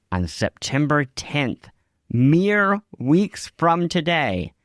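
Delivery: slow, drawn-out hype announcement; slowing down for a mock-grand payoff; mock-epic reveal. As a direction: build it up like a grand trailer reveal. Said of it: "dramatic slow hype reveal".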